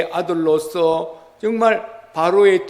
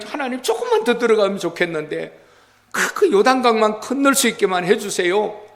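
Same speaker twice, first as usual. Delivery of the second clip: higher-pitched, hurried imagined plea; pleading; 4 semitones higher than usual. Pretend. Preacher voices a plea to God to cross the Jordan, pleading. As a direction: beg earnestly, as if asking a small favour.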